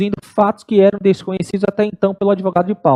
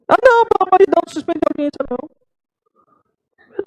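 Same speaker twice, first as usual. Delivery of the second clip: pleading lawyer; 8 semitones higher than usual. Retold or imitated. Lawyer pleads, retold by judge.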